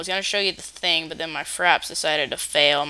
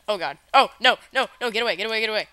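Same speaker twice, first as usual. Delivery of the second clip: scared; 3 semitones higher, faster than usual. Real, not acted. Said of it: "I'm so scared of lava now".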